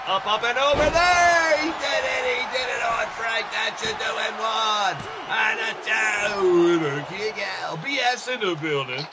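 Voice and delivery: high, loud shouted match call; excited play-by-play. Real, not acted. Commentator calls pin attempt on Frank, excited shouting. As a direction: shout the near fall as it happens.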